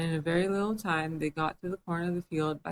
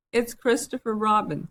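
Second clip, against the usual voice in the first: a touch louder and higher, eager; pleased to spot his friend; mildly eager announcement; 5 semitones higher, 5 dB louder than usual. A narrator's reading. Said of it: "said Pooh eagerly".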